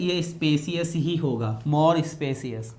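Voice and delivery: corrected phrase spelled out slowly; slow correction. Shown as a demonstration. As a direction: lay down the right answer slowly. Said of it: "ये ईआर गलत है".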